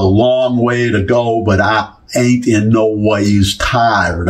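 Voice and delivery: slow, half-hearted Southern drawl; badly faked Southern accent, drawn out; Hillary Clinton. Midwesterner retelling a politician's campaign line, clumsy Southern accent. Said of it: "I can't do this up".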